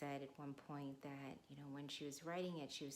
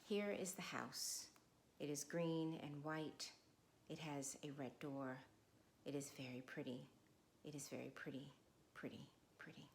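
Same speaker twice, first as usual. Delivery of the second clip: primer reading. Acted. Reads the primer opening.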